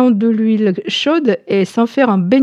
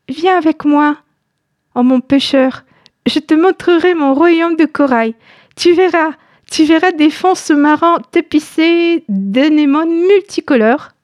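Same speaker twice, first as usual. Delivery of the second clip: high, bewitching siren voice; enchanting voice; 6 semitones higher than usual. Acted. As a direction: lure him in, seductive and magical. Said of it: "d'une voix envoûtante".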